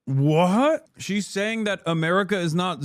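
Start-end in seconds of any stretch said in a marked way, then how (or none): 0.0-0.9 stunned whisper; whispered disbelief. Real, not acted. Disbelief at the claim.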